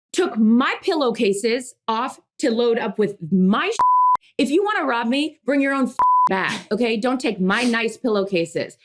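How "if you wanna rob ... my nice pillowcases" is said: pitched up, telling off the burglars; mock-indignant lecture to the thieves; sassy scolding. Real, not acted. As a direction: wag a finger at the robbers. Scolding the robbers directly.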